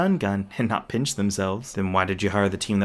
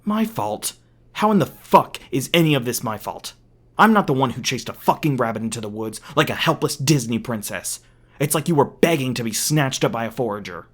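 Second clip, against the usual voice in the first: furious, louder and raised yelling; angry yelling; 2 semitones higher, 4 dB louder than usual. Acted. Prisoner yelling back at his captor, angry. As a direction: hurl the blame back at him.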